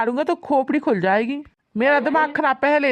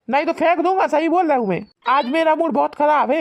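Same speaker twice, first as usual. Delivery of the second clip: angry threats; 2 semitones higher than usual. Acted. Husband threatens wife angrily.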